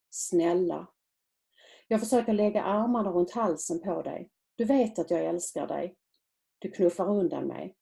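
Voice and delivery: usual speaking voice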